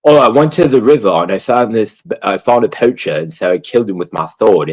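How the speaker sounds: a light mock of an earnest game hero; lightly voiced medieval soldier recounting a quest; game character impression. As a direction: streamer mocking the Kingdom Come guy. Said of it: "He'll be like".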